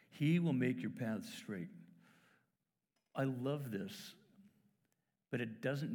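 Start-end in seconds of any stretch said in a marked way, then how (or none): 0.1-1.7 slow the verse right down; slow, savouring reread; slow, weighty repeat. Shown as a demonstration. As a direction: let each word land slowly.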